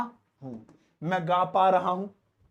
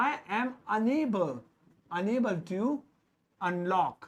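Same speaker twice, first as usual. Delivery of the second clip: slow model sentence; 4 dB quieter, much slower than usual. Shown as a demonstration. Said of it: "slow model sentence".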